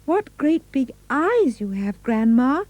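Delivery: put-on child's wide-eyed question, pitched high; high little girl voice. A narrator's reading. Little girl asking her grandma, high and curious.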